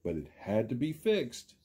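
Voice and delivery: lively storybook read, big rises and falls; reading to children. A narrator's reading. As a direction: read it like story time for little kids.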